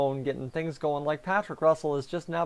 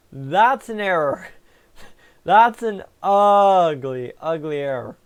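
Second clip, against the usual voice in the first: laughing; 7 dB louder, slower than usual. Real, not acted. Laughing at an ugly error.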